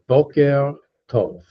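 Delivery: Boker tov slow, each word set apart; drawn-out teacher's Boker tov; careful model pronunciation. Shown as a demonstration. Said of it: "There's another R in there".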